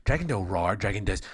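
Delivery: put-on loud, childlike queen voice, proud of her dragon; simple dwarf queen. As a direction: boast like a dim little queen, loud.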